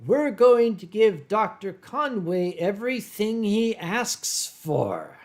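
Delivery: put-on Pittsburgh accent; Pittsburghese. Shown as a demonstration. Answering a viewer's request, Pittsburghese accent demo. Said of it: "I can do Pittsburghese".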